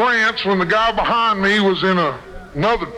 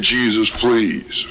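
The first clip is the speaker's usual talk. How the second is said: bawling plea; 9 semitones lower than usual. Retold or imitated.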